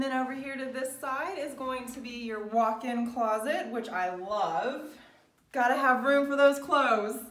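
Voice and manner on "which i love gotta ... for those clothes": gushing real estate agent. Real, not acted. Gushing over the walk-in closet.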